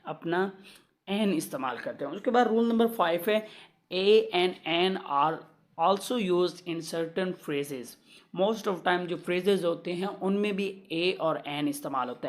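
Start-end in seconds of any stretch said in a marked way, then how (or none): 3.9-7.9 very slow, word-by-word classroom reading; measured dictation of a grammar rule. Shown as a demonstration. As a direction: dictate the rule so students can write it down.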